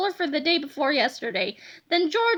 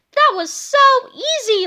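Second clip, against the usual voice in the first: laughing; 8 semitones higher, 8 dB louder than usual. Acted. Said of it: "laughed George".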